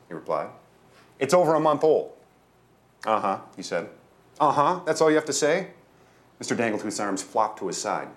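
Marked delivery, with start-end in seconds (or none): 1.2-2.1 louder, higher insistence; insistent. A narrator's reading. Bag lady showing Mister Dangletooth old bread, insistent. Presses the point about the bread. 4.4-5.7 louder, higher, rising disbelief; incredulous echo. A narrator's reading. Bag lady irked by an indifferent reply, incredulous. Throws his reply back at him.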